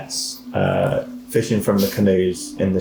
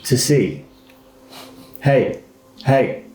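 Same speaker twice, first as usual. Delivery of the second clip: kenku mimic; 5 semitones higher, slower than usual. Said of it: "and says".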